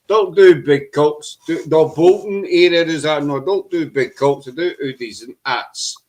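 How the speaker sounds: put-on joking, vague northern English accent. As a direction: ham up a Bolton-ish English accent. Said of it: "That's my English accent coming out".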